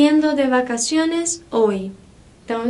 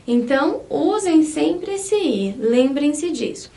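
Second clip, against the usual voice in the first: ordinary talk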